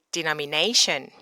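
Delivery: denomination stressed on nei; weight on nei in denomination, the ending falling; correct stress. Shown as a demonstration. Teacher repeating the correct stress for learners. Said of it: "Again, you gotta say".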